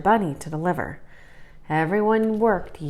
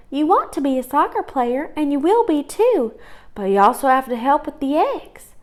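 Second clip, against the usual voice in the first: firm sister; 7 semitones higher than usual. Acted. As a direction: stop him firmly. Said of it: "said Liza".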